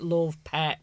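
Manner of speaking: lightly done Yorkshire-Lancashire; Yorkshire-Lancashire accent. Shown as a demonstration. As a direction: demonstrate a touch of Yorkshire-Lancashire. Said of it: "I feel it's more Yorkshire, Manchester".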